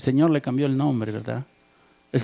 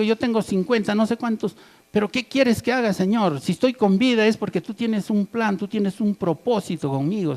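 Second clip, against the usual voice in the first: higher-pitched, earnest mock prayer; raised-pitch appeal, voiced for the congregation; acted plea to God; 5 semitones higher than usual. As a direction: plead as a believer asking the Lord for purpose. Acts out believer pleading with God.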